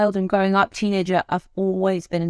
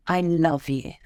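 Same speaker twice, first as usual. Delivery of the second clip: warm, soothing; 2 semitones lower, slower than usual. Shown as a demonstration. Trainer showing a soothing, tender way to say it. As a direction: let warmth carry the words. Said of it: "it's beautiful, it's soothing, there's warmth to it".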